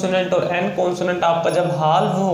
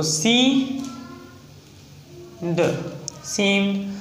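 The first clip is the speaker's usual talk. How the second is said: sounding out; 4 semitones higher, 4 dB quieter, much slower than usual. Shown as a demonstration. Teacher sounds out example word.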